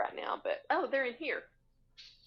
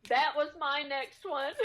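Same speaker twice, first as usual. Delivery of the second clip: laughing whisper; 4 semitones higher, 4 dB louder, slower than usual. Real, not acted. Friend picked the same item.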